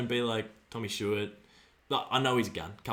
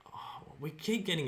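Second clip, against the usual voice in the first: whisper; 3 semitones higher, 6 dB quieter than usual. Real, not acted. Tense moment in the game.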